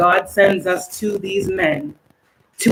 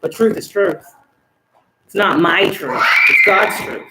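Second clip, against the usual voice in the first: angry. Real, not acted. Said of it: "Sorry I got angry with these people".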